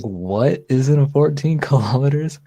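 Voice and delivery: loud, high Aussie disbelief; Australian accent. Retold or imitated. Host retelling the road sign video, in a loud Australian accent. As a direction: quote an astonished Australian at volume. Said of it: "He was like".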